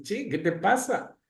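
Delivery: madre imitada, pregunta en tono agudo; madre preocupada. Retold or imitated. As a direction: imita a una mamá que pregunta extrañada. (mamá preocupada, voz más aguda)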